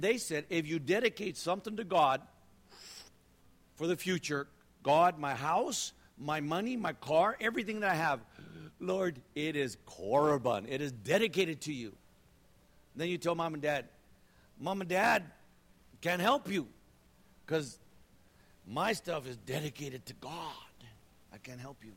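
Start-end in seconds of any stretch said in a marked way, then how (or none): 4.8-12.0 mock pious vow. Voicing dedication to God, mock-pious. 14.6-21.9 mock refusal. Voicing son refusing parents.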